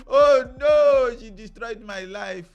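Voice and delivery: hammed-up despair of a crushed husband; mock heartbroken wail. Husband realising his wife wrecked him, mock wailing.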